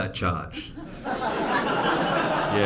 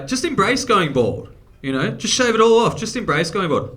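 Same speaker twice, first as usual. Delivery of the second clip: high, loud mocking people giving advice; 9 semitones higher, 5 dB louder than usual. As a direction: parrot the advice in a high whiny voice. Friends' advice voiced high.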